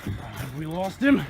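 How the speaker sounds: quiet stalking whisper-like voice; hushed. Acted. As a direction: keep it hushed while sneaking. Hushed sneaking narration.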